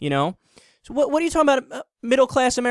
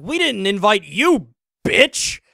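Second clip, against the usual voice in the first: retold angry yelling, loud and high; a Native American man yelling at white anti-immigration protesters, furious; furious rant; 6 semitones higher, 4 dB louder than usual. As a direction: shout him down like the furious protester. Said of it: "this guy was furious".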